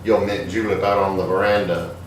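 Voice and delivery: slow, thick Southern belle drawl; hammed-up Southern drawl calling the servant. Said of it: "you're required to speak in a thick, in a thick southern drawl like this".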